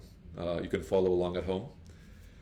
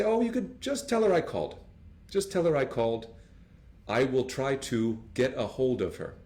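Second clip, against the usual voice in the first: cheerful caller; 3 semitones higher than usual. Acted. Acted caller reply.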